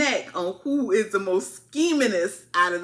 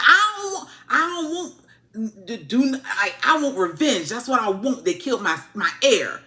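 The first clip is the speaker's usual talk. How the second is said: mock angry outburst; 2 semitones higher, 5 dB louder than usual. Aegon raging about revenge.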